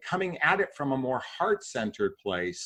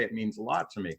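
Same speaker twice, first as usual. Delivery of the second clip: sincere, soft; 5 semitones lower, 6 dB quieter, faster than usual. Shown as a demonstration. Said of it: "you even say".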